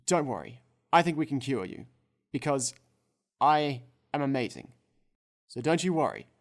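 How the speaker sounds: loud, self-important doctor boast; arrogant doctor. Acted. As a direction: puff up like a cocky surgeon. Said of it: "It's like, clears throat".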